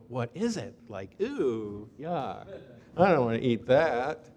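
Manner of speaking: mock squeamish, wrinkled-nose voice; hammed-up disgust at strange food; disgusted grumbling. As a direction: play the picky crowd turning up its nose. People disgusted at manna.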